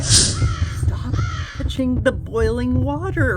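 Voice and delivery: high, loud melodramatic warning; dramatic outcry. Acted. Warning Rose off the boiling water, hammed-up dramatic shout. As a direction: cry it out like an overblown movie moment. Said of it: "In case you missed that dramatic moment".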